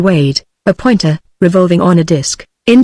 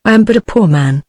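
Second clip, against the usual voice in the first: ordinary delivery, nothing marked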